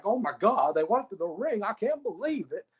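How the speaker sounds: high, sing-song mock Japanese crowd voice. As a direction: squeal like a stunned Japanese fan. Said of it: "The crowd's like".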